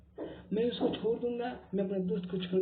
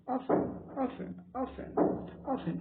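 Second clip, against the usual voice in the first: whispered drill; 6 semitones higher, 3 dB quieter, slower than usual. Shown as a demonstration. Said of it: "five times बोला".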